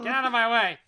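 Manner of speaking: loud, high gruff creeper. Acted. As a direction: bark it like a monster. Voicing the creeper.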